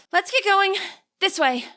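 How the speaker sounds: rally the group forward; brisk lead-off. A narrator's reading. Juliana rallying friends to ride off, brisk urging. Juliana leading after a sigh.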